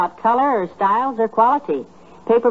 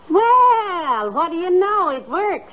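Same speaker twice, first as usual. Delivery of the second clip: surprised delight; 9 semitones higher, much slower than usual. Real, not acted. Surprised the lights work.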